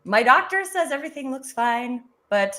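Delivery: real husky voice after losing it. Real, not acted. Guest explains her lost voice to the panel, husky voice. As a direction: tell it cheerfully through a husky, worn-out voice. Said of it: "I bring the husky voice".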